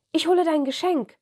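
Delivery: put-on high, fast, eager boy voice; excited child. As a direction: blurt it out like an excited kid. Anton jumps out of bed.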